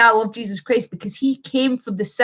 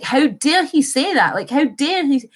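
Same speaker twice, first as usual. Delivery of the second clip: mildly outraged, higher pitch on the retelling; retold indignation; 4 semitones higher than usual. Streamer recounting her reaction to Shapiro's remark, indignant. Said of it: "I was so fucking angry".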